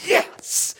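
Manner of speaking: high, quick gloating taunt at Satan; laughing high taunt; gleeful mock taunt. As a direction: crow it like a winner.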